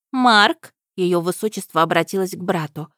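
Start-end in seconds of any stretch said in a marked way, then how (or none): 0.1-0.7 high, loud calling princess. A narrator's reading. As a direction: call your brother sharply. Princess calls brother.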